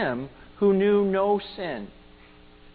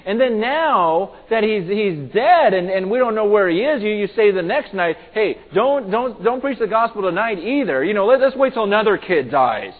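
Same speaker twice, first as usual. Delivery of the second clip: retold tearful outrage; 5 semitones higher, 8 dB louder than usual. Wife confronting camp leaders over the dead kid, retold outrage. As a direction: imitate an upset wife confronting the leaders, building from hushed disbelief. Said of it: "with tears in her eyes".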